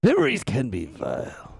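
lightly voiced sinister villain; a hint of the Joker, creepy and low. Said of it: "I'm the Joker".

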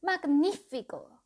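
high, loud and slow triumphant howl. Acted. Calderaus exulting over the trip, loud high howl. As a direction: throw it out like a wizard's howl of delight. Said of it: "aulló Calderaus".

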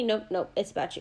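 soft, low quick deflection; quiet deflecting; deflecting brush-off. Retold or imitated. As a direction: wave it off under your breath. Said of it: "As soon as somebody asks about me".

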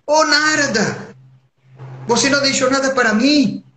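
a god pouting at a friend who ate it all; Shiva complaining. Acted. (Shiva reclamando com Narada, voz bem aguda e chorosa)

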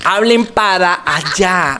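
"para allá" stretched, every syllable complete; full pronunciation. Shown as a demonstration. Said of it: "Hay que hablar completo".

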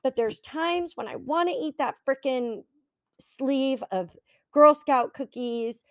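fast, tight, strained perfectionist voice; tense voice. Shown as a demonstration. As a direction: let the tension creep in as you rush it. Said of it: "can you feel my voice and my tension shift".

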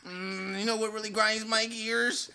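stewing over a pet peeve; mock irritation. Acts out griping about someone online.

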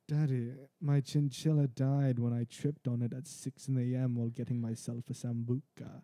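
slow, drawn-out pampered whine; foppish spoiled boy. Acted. Spoiled royal son complaining to daddy, slow foppish voice. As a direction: tell daddy your sorrows like a pampered heir. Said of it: "It's a very foppish".

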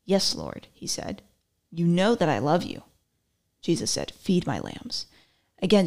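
measured Bible reading voice; scripture reading. Acted. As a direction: read it like a sermon passage. Reads Bible passage aloud.

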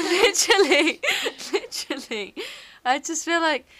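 high, helpless laughter through the word; laughing. Real, not acted. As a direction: agree while cracking up. Cracking up at friend's joke.

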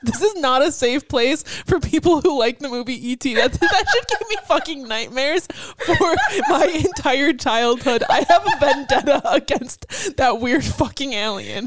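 laughing fury, slow and emphatic; heated laughing rant. Real, not acted. Cohost ranting at the alien movie, laughing fury. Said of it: "Oh my God, you're so heated".

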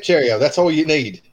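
jaunty mock British; hammed-up British encouragement; British accent. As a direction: finish in a put-on British accent. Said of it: "supposed to do an accent".

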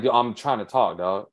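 imitating him in earnest, at normal pitch; serious. Co-host retelling Shannon being cut off by Skip, serious. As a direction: say it level and mean it, as a retold objection. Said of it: "actually serious and people are talking serious".

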